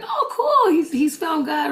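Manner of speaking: high, laughing mock delight; laughing mock cheer. To friends about their late-converted buddy, laughing mock cheer. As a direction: gush over it through a laugh.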